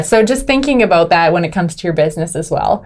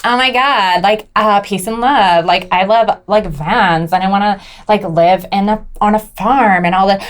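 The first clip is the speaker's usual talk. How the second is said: put-on Valley girl hippie. Wife voicing husband's mock of her, Valley girl. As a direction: gush lightly like a peace-and-love hippie. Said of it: "you'll be like".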